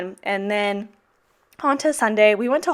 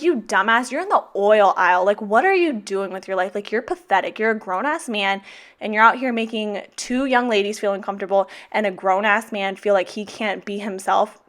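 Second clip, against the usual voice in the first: retold angry rant. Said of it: "I put a lot of colorful words in there".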